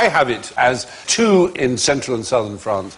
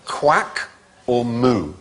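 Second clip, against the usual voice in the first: slow drawn-out question; 3 semitones lower, 3 dB quieter, much slower than usual. Acted. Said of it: "which is funnier".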